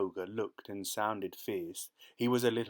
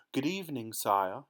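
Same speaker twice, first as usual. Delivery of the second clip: calling out; 2 semitones higher than usual. Acted. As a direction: hail the king's carriage. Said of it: "he called out".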